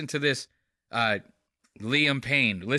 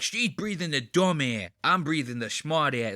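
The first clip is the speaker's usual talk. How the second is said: JFK impression; 2 semitones higher than usual. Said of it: "I do more of a J F K".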